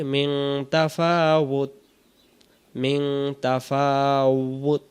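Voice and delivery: তাফাউত closed on the ত with no ইন; stopping on তাফাউত. Shown as a demonstration. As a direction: slowly cut তাফাউত short at the stop. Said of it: "যদি দম ছেড়ে দিই". (থামার সময় তাফাউত, শেষে ইন ছাড়া)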